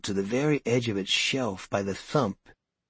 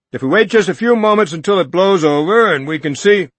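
higher, louder appeal; yelling; 10 semitones higher, 12 dB louder than usual. Acted. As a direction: shout reason over the crowd. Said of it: "Norton yelled".

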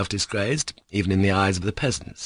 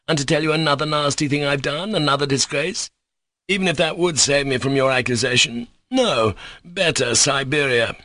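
higher pitched, indignant tirade; furious outburst; 4 semitones higher than usual. Acted. Mitya rails at the investigators, indignant and raised. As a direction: Mitya hurls contempt at the scoffing investigators.

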